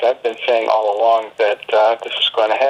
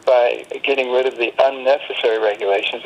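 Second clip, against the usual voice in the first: unnecessary said with light extra weight; a mild emphasis falls on unnecessary; stress on unnecessary. Real, not acted. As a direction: lean a little on the word unnecessary. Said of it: "I stress the word unnecessary".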